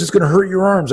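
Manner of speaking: high, worried daughter's protest; high-pitched retold warning; alarmed protest. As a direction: imitate a daughter objecting in alarm.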